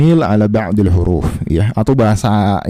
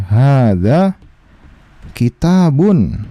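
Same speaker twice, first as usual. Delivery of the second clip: slow spoken example; 3 semitones higher, much slower than usual. Shown as a demonstration. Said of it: "Misalnya kita ngomong nih".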